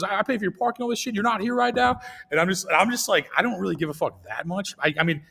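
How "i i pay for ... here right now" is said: mock-furious high rant; mock tirade, higher pitched; imitating angry rich lady. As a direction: ham up an entitled lady going off. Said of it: "And then she goes".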